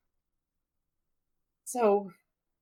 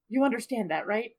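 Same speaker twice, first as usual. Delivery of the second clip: slow careful instructions. Acted. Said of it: "he looks at him and he says".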